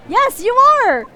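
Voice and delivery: shouted high and loud; defiant shout. Acted. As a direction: fire it back at the room. Courtroom outburst, voicing crowd.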